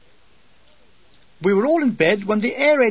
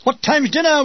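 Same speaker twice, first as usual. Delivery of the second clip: sung-out group question, higher; chorused; 8 semitones higher, 4 dB louder than usual. Acted. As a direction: call it out together. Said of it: "we chorused".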